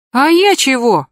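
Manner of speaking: a shocked high little protest; gasping. A narrator's reading. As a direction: gasp it, caught off guard. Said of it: "ахнула Анька".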